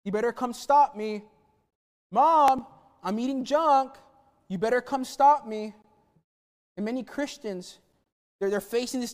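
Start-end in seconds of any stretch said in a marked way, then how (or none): 0.0-1.2 put-on cheeky kid daring his brother, a bit louder; taunting kid. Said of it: "what does he say when he goes into Buzz's room". 2.1-5.7 put-on cheeky kid daring his brother, a bit louder; taunting kid. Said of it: "what does he say".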